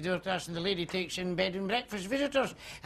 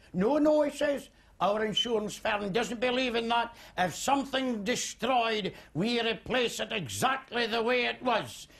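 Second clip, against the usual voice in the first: lightly voiced agent, higher and slower; a hint of a brisk salesman; insurance agent; 4 semitones higher than usual. Insurance agent explaining to the farmer, lightly voiced.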